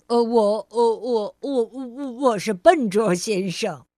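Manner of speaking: loud, tripping stammer with nervous um's; bumbling stammer. Acted. Mr. Clumsy introducing himself, bumbling loud stammer. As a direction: stumble over every word, sheepish. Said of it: "边笑边说".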